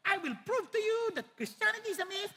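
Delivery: quoting Voltaire. Retold or imitated. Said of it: "naalala ko ng panahon ni Voltaire".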